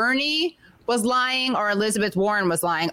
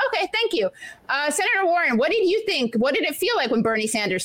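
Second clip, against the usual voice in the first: higher, brisk mock debate moderator; 6 semitones higher than usual. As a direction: ham up a TV moderator moving on. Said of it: "the debate one was like".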